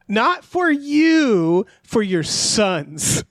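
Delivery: drawn out, one phrase at a time; slow emphatic delivery. Retold or imitated. Host voices Jerry passing the job along, slow and emphatic. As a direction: stretch YOU and SONS for comic weight. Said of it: "he's just like".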